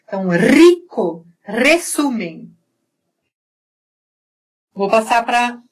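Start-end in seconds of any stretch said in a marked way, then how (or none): 0.3-2.5 "rico", "resumem" with a long trilled R; rolled initial R. Shown as a demonstration. Teacher applies the motorbike trill, rolled R in "resumem". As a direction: put the vibration on the R of "rico". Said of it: "colocar a vibração aí na".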